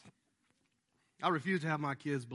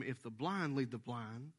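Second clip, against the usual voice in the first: quoting Jesus; 4 semitones lower, 4 dB quieter than usual. Retold or imitated. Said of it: "That's why Jesus told them".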